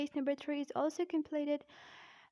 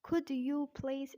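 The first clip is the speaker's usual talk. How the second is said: British "Could you please", words kept apart; British-accent demo phrase; slower than usual. Shown as a demonstration. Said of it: "in British accent".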